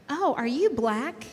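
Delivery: slow, drawn-out mock question from a chatter; mock troll question. A streamer mimicking a chatter, slow and drawn out. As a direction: drag it out like a clueless troll.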